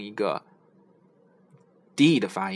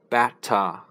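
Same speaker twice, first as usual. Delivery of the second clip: better with a crisp British t; British accent; 3 dB louder than usual. Shown as a demonstration. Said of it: "英国人是".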